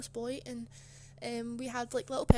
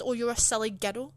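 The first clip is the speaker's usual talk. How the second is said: dismissive teacher; 8 dB louder than usual. Retold or imitated. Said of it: "She just said".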